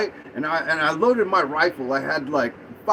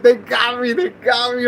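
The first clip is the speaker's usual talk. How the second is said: raised, urgent acted alarm; high-pitched dismayed repetition; retold panic; 5 semitones higher, 4 dB louder than usual. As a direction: replay the panic of being caught. Retelling being caught by cops.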